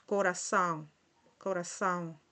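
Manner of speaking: corazón as "co-ra-SAUN" with an S; Portuguese nasal ending. Shown as a demonstration. Teacher models the accented ending, corazón as "co-ra-saun". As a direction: end corazón on a nasal sound, S for z. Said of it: "con estos acentos y la C celdilia".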